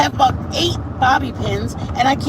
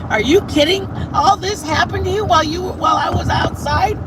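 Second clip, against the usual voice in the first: retold shout; 6 semitones higher than usual. Imitating Joe shouting about the cat chaos. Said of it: "Joe's like".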